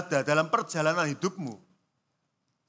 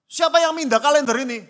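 high, loud mock-angry demand; scary angry father; 6 semitones higher, 6 dB louder than usual. Father demands who moved the calendar, scary and angry. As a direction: imitate a father hunting for the culprit. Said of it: "Wih, serem kan".

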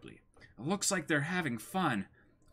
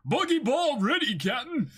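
high, loud deckhand call; shouted crewman report; 10 semitones higher, 5 dB louder than usual. Acted. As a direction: report ready to the captain.

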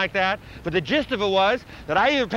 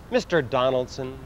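solemn pronouncement; 10 semitones lower, 3 dB quieter than usual. Acted. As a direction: intone it low like a grand prophet. Alien Pope answering reporter solemnly.

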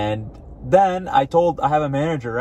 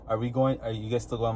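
awkward and quiet; 8 dB quieter than usual. Retold or imitated. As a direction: keep it hushed, unsure. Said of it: "so awkward on the phone".

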